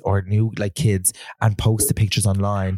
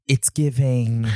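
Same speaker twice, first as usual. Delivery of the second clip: sassy drag queen; much slower than usual. Retold or imitated. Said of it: "people who say".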